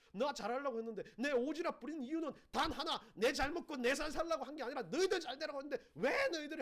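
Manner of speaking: acted indignant rant, with a laugh at the end; indignant outburst. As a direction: blow up at the ungrateful friends. Acting out angry outburst.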